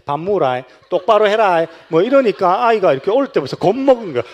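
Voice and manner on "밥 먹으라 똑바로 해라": put-on loud, rising gruff command to a baby; stern Gyeongsang order. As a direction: order the child about sharply. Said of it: "우리 경상도는 영아한테". (경상도 아버지가 아기에게 크게 호통치듯)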